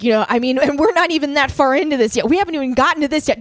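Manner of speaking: mildly worked-up retold rant, speeding up; imitated rant. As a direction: rattle it off, pitch climbing. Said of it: "ranting about Jordan Peterson".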